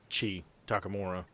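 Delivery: ordinary talk, nothing marked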